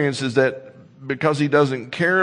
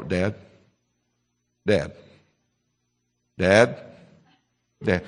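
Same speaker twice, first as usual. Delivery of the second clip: put-on whiny nagging kid calling; a child tugging for attention; pestering child; 7 semitones lower, slower than usual. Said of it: "your kid comes up there ... and they go".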